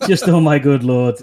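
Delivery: chuckling oh my good lord; laughing. Real, not acted. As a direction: give in and laugh it out. Repeating it while laughing.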